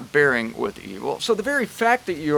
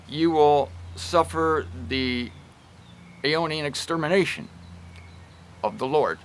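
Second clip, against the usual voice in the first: calm, gentle rebuke, no raised voice; meek correction. Shown as a demonstration. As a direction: correct them meekly, staying level. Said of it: "Watch, I'll do it now".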